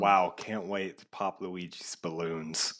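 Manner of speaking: slow, deadpan fake enthusiasm; sarcastic excitement. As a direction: feign eagerness, dragging the words out. Mocks the new game mode.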